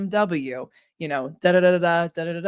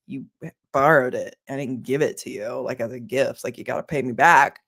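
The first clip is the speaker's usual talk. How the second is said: lower, firm voice of the wronged friend; indignant friend; 6 semitones lower than usual. Retold or imitated. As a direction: put your foot down as the lender. Friend voiced in retold story.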